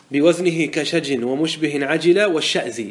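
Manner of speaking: slow measured recital of the poem line; verse recital. Shown as a demonstration. Teacher reciting the full verse to the class. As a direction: chant the verse slowly and evenly. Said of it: "لذلك قال الناظم".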